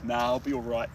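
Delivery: put-on Aussie accent. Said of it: "it's more like a".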